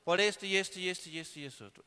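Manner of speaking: scolding mother. Retold or imitated. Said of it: "mamá nos regañaba y decía".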